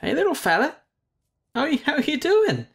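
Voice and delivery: very high, cooing voice to a small creature. Real, not acted. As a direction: coo at the little creature sweetly. Baby talk to creature.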